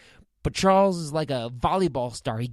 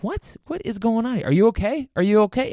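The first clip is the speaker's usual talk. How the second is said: alarmed disbelief; 8 semitones higher, 3 dB louder than usual. Retold or imitated. Alarmed at the bleeding old man.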